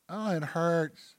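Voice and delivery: soft, drawn-out whine; whining. Acted. Preacher mimicking his own complaints, a slow mock whine. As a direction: moan it slowly, feeling sorry for yourself. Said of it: "I whine".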